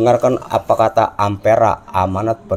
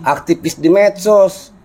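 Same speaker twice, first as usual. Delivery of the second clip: raised, rousing street-rally call; 8 semitones higher than usual. Real, not acted. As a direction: urge them on like a protest leader. Urging people to join protest.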